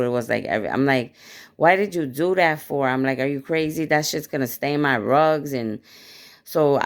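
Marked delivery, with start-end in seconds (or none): 1.6-5.5 upset retort. Retold or imitated. Angry retort to girl throwing oil.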